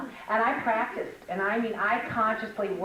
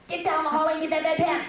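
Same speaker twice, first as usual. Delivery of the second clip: louder, higher, fast barked order; mock bossy command; 8 semitones higher, 5 dB louder, faster than usual. Shown as a demonstration. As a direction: bark it out like a drill sergeant. Contrast of harsh command.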